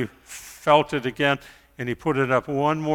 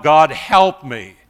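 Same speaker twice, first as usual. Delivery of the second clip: loud, slow desperate cry; Jonah's loud plea for rescue; crying out to God; 7 dB louder, slower than usual. Retold or imitated. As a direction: call up to God from the depths. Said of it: "where he cries out".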